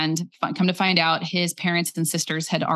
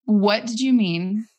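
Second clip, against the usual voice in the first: calm question; 4 semitones higher, slower than usual. Retold or imitated. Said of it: "able to stop and then go".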